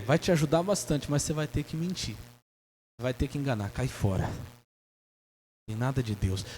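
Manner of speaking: ordinary delivery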